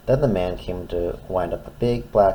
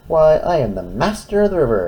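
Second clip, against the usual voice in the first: proud lighthouse; 7 semitones higher, 5 dB louder than usual. Acted. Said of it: "it thought".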